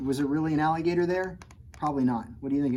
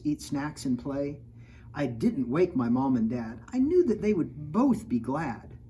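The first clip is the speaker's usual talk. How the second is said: lively picture-book read-aloud; reading to children. A narrator's reading. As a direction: read the rhymes to a kid audience. Reads rhyming picture book.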